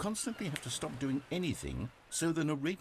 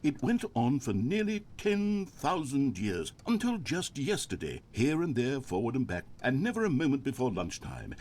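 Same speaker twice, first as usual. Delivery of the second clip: droning monologue; 3 dB louder than usual. Pretend. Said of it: "pretend that I've just begun an interminable monologue".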